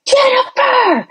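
high, slow, drawn-out call of a name; a nurse calling a patient back to consciousness; stretched-out high wake-up call. Retold or imitated. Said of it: "that sweet little nurse was going".

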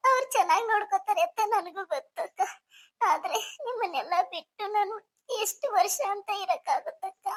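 acted weepy young bride; mild sobbing protest; tearful pleading. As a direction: plead with your sister through tears. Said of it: "ಯಾಕ್ ಅಳ್ತೀಯ?".

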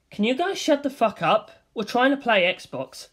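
high, irritated shout at the room; annoyed outburst. Acted. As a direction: tell the noisy group off. Gamer yells at loud partiers.

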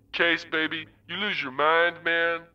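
a hint of a languid old acquaintance; slow, familiar voice. A narrator's reading. Wintermute as a familiar voice teasing Case from the screen, lightly voiced. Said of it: "The voice was slow, familiar".

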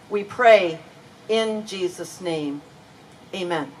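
hushed, earnest prayer voice; spoken prayer. Real, not acted. Leads the congregation in prayer.

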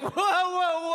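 high-pitched mock alarm; imitating taken-aback friends; alarmed interruption. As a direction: cut in to stop someone short. Friends halt her announcement.

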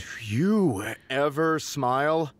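slow, spat contemptuously. Acted. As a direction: spit the words at her. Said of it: "spat Kyle".

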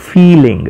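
"ફીલિંગ" with a long, stressed "ee"; pronunciation demo. Shown as a demonstration. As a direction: stretch the first syllable of "ફીલિંગ". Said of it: "આનો ઉચ્ચાર થશે".

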